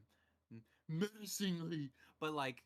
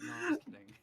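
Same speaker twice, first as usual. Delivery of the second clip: much higher, louder teasing quip; mock Spider-Man; 6 dB louder than usual. Spider-Man backing off his joke in court, high teasing. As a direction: toss it off high and playful. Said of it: "Spider-Man's like".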